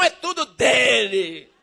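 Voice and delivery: ordinary talk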